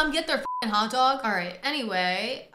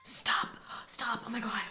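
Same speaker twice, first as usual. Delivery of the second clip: hushed stop; 6 dB quieter than usual. Real, not acted. Hysterical, hushing herself.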